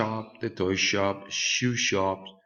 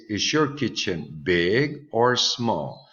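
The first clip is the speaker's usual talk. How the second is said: slow model question; 3 semitones higher, 3 dB louder, slower than usual. Shown as a demonstration. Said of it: "remember we have here".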